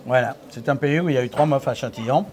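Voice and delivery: talking with a mouthful of chocolate; mouth full. Real, not acted. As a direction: chew and talk at once. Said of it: "ils sont tellement bons que j'arrive plus à parler".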